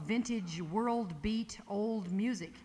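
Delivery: usual speaking voice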